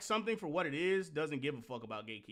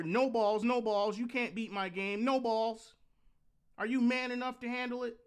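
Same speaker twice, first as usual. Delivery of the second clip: higher, louder macho taunt; 8 semitones higher, 6 dB louder than usual. Retold or imitated. Old gaming ads taunting the player, in a loud jeering dare. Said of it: "were all about telling the gamer".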